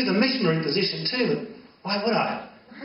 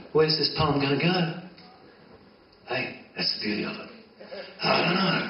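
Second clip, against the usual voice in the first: ordinary delivery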